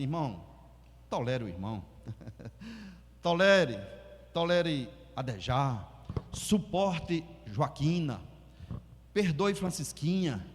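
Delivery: calm the quarrel tenderly; a peacemaker's soft appeal; gentle plea. Retold or imitated.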